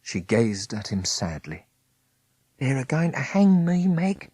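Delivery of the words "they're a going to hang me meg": higher voice, lightly pleading; a touch of desperate prisoner; Smith's despair. A narrator's reading. Condemned Smith tells Meg he'll hang, higher voice.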